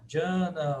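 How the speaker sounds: "Jana" slow, as "DJA-na"; commonly heard variant. Shown as a demonstration. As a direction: say "Jana" without any palatal N. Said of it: "A gente vai ouvir". ("Jana" lento, só com som de "dj")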